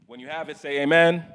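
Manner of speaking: muffled behind a face mask; through a face mask. Real, not acted. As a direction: speak through a cloth mask. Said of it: "I can't speak through this mask".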